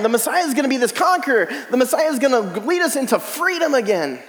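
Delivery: mock outrage that the Messiah could die; rising indignant zeal. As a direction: argue it like a zealot sure of victory. Voicing Jewish expectation, rising heat.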